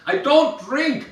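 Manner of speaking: high, slow, drawn-out mock yell; repeating over music. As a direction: spell it out for someone who can't hear. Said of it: "is always way too loud".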